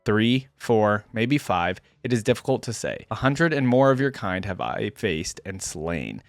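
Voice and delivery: deliberate, solemn narration with defiant peaks; dramatic story reading. A narrator's reading. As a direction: read a hunted warrior's account with gravity. Reads first-person story aloud.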